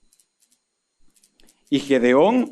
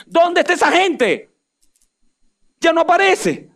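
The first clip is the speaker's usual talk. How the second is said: lamenting cry; 13 semitones higher than usual. Acted. Preacher laments the vanished church.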